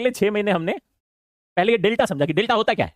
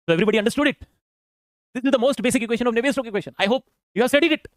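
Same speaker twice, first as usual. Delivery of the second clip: professor lecturing; much slower than usual. Retold or imitated. Speaker voices the professor.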